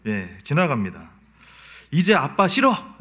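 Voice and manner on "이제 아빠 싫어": higher childish sulk, lightly voiced; a hint of a sulking little girl; pouty little daughter. Daughter sulking at dad after a scolding, pouty child voice. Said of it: "이러면".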